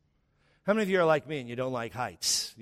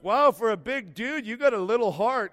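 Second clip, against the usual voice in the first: teasing onlookers; 6 semitones higher, 4 dB louder than usual. Retold or imitated. Others teasing him, voiced.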